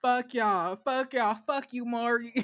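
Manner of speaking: softly voiced mock defiant kid; badass kid. Imitating kids coming onto Maury's stage, mock defiant. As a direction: imitate a bratty talk-show kid, kept quiet. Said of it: "like them little badass kids who come down".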